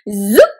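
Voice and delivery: quick, loud "zoop" sweeping upward; tights-pulling zip. Shown as a demonstration. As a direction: imitate tights being pulled on. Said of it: "Pretend you're pulling on tights".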